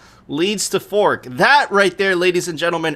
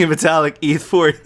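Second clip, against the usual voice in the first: reading through laughter; laughing; 2 semitones lower than usual. Real, not acted. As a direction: giggle through the words. Laughing at meme.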